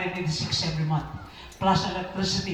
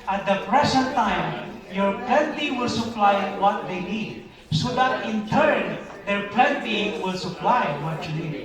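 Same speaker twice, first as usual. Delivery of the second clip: slow reading aloud; slower than usual. Shown as a demonstration. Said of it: "Ready, go".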